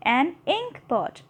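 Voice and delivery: an ink pot said very slowly, word by word; slow teacher's model reading; slow demo. Shown as a demonstration. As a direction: spell it out slowly for the class. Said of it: "ink pot कह रहे हैं".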